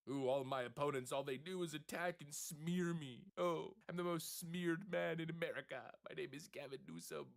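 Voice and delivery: lightly hammed-up parody of a self-pitying governor; a hint of a sulky politician; mock Gavin Newsom. Mocking the governor's self-pity.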